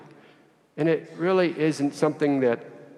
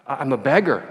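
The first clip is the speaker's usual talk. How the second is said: flustered protest; 3 semitones higher, 4 dB louder than usual. Retold or imitated. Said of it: "the priest protested".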